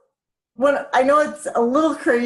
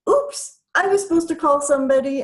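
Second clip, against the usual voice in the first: mock-startled oops; playful oops. Shown as a demonstration. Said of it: "It may be like".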